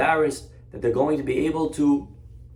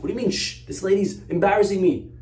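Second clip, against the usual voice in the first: indignant protest; 6 semitones higher than usual. Retold or imitated. Mother of bride protests being hushed.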